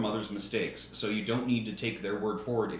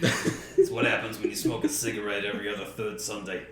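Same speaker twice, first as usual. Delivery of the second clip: smoker voice; 4 semitones lower than usual. Acted. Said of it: "That's a really good smoker voice".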